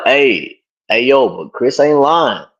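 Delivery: a hint of New York street voice; New York accent. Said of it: "in my New York accent".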